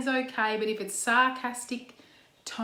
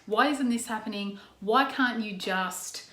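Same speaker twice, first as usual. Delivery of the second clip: slow, pointed accusing nag; mild mock attacking whine; slower than usual. Shown as a demonstration. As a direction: needle the person with each why. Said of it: "attack the person".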